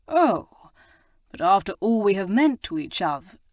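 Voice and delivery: mock hurt. A narrator's reading. Rake feigning hurt to Prudence, hammed-up protest. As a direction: play wounded, not meaning it.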